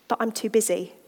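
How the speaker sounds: reading a poem of Lord and man, voices traded; dramatic reading. Acted. Speaker reading a prayer dialogue to the women's group. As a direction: read it aloud with gentle drama.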